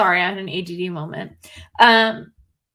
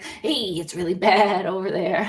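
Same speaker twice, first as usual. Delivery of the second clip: goat man voice, laughing. Retold or imitated. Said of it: "he comes out and he's like".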